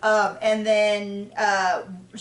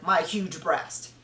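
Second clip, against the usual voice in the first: mock brag; 4 semitones lower, much slower than usual. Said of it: "Like, it's a joke".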